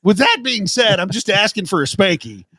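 corporate jargon parody. Pretend. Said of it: "I can't believe you just put all those in".

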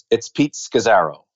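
Pete Scazzero in his own New York accent. Shown as a demonstration. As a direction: say the name the Queens way. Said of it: "say your name because you say it with a New York accent".

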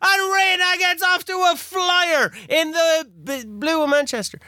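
high, drawn-out football call; excited commentary shout. Real, not acted. Player calls his team's flying start, excited shout. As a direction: belt out the breakaway with rising excitement.

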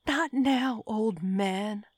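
put-on impatient dismissal of the old man; sharp rebuke. A narrator's reading. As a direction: cut him off impatiently. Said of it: "I rebuked him".

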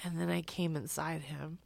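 soft, near-whispered menace; hushed creepy monologue. Retold or imitated. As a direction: whisper it like a killer confiding. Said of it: "And he's like".

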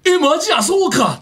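demonstrating a lively "really?" reaction; surprised reaction. Shown as a demonstration. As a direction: show how a proper surprised reaction sounds. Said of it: "ってやってほしいね".

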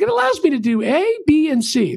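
hammed-up enthusiast; eager customer. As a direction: rattle off the perks like a proud fan. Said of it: "is all fired up".

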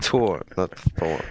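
first Thor with a hard T, "Tor", second with English "th"; correcting pronunciation. Shown as a demonstration. Correcting the American host on Thor, contrasted pronunciations. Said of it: "that's correct".

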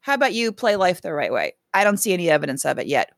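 pointed, sarcastic rant at the manager. Real, not acted. Podcast host ranting at the manager, sarcastic scolding. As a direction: jab each question like a scolding. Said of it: "in my rant voice".

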